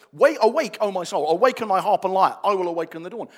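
fervent proclamation; declaring. Shown as a demonstration. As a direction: call your soul awake. Declaring the psalm with building force.

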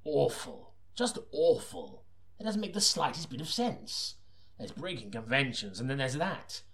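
high, disbelieving outrage; exasperated. Real, not acted. Reader complaining to the producer about the script, high exasperation. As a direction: rant at the nonsense. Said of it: "reader's own exasperation".

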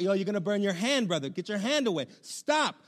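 mock yell rising to a high "stop"; retold yell. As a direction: imitate an urgent parental warning. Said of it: "I start having to yell at him".

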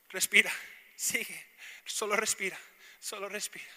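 acted encouragement with pauses between phrases; calming coaching. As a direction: tenderly coach someone through pain, acting it out. Voicing God coaching through pain.

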